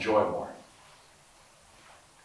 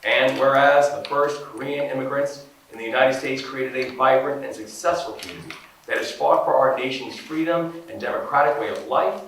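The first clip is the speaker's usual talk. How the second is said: louder, higher, ceremonial reading voice; formal proclamation read; 4 semitones higher, 5 dB louder than usual. Acted. Governor reading the proclamation to the ambassador, ceremonial and loud. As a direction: read the proclamation like an official decree. Reads official proclamation aloud.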